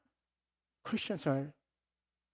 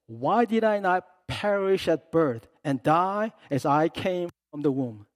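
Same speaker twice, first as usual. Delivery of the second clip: Job's lament; 2 semitones higher, 6 dB louder than usual. Retold or imitated. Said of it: "He said".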